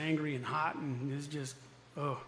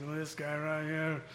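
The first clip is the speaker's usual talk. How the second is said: knowing counselor; slower than usual. Retold or imitated. Counselor sizing him up.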